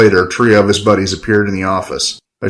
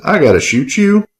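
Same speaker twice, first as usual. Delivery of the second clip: scowling; 9 semitones higher than usual. Acted. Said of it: "Archie scowled".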